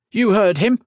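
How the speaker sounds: high, loud officer's shout; shouted order. A narrator's reading. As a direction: shout it to rally the troops. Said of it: "he shouted".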